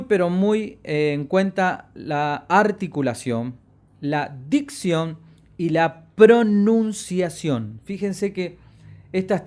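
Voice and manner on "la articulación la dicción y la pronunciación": each word drawn out slowly; slow, careful diction. Shown as a demonstration. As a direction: spell out the words slowly for the class. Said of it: "En la educación vocal". (pronunciación lenta y marcada)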